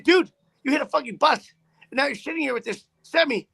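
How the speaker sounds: tearing into him for risking lives; angry reprimand. Retold or imitated. Trucker scolding the driver who hit a bus, loud and angry.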